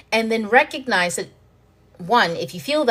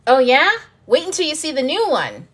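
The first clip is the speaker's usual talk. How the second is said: higher, louder playful tease; teasing universe; 7 semitones higher, 5 dB louder than usual. Pretend. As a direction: tease like someone hiding a bigger surprise.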